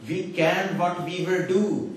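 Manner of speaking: put-on slow, South Asian-accented misquote; South Asian English accent. Speaker quoting faulty scripture to the audience, slow South Asian accent. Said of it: "doesn't sound too bad with the accent".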